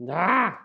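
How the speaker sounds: short, frustrated "ah!"; exasperated cry. Real, not acted. Teacher fighting with a tool mid-lesson, exasperated cry. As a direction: let out a sudden cry of annoyance. Annoyed at misbehaving on-screen tool.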